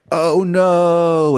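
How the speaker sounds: high, loud yelp of dismay; mock panic. Minister seeing the lit cannon, high loud panicked oh no. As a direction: squeal it as the wick burns down. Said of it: "he just goes like".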